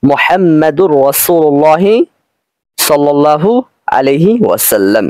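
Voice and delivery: "মুহাম্মাদুর রাসূলুল্লাহ" slowly, with the n turned into a held r; joined pronunciation. Shown as a demonstration. Teacher showing how it sounds read together, joined pronunciation. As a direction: run "মুহাম্মাদুর" into "রাসূলুল্লাহ" on a doubled r, drawn out. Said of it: "তাহলে উচ্চারণটা হবে এরকম".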